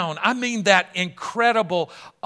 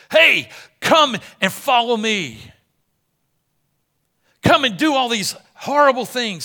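sin shouting its invitation; loud tempter; 5 semitones higher, 7 dB louder than usual. Acted. Preacher voicing sin as a loud open tempter.

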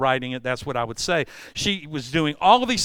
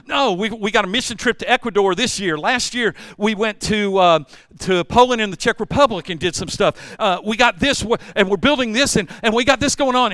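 excited busy talk; 5 semitones higher, 5 dB louder than usual. Retold or imitated. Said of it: "it's like".

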